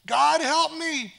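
high, loud, slow plea; desperate prayer. Retold or imitated. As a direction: cry out to God slowly and urgently. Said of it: "she prayed the prayer again".

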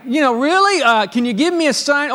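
put-on old priest can't believe it; mock shock. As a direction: play Zacharias caught off guard. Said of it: "his response is one of shock".

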